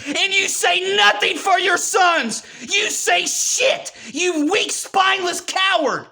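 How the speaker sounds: heated yell at cowards; angry shout. Real, not acted. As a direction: shout the insult at them. Berating fathers who stay silent.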